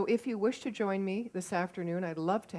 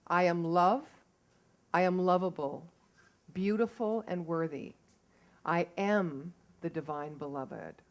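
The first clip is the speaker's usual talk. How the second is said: affirmation read; 4 dB louder than usual. Shown as a demonstration. Speaker shares the affirmation with the congregation, measured reading. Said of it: "the affirmation for today, it's in your program".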